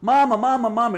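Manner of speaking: high, loud mock scream of mama; frantic comic yelling, retelling a joke. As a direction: yell for mama at the top of your lungs. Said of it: "He's screaming at the top of his lungs".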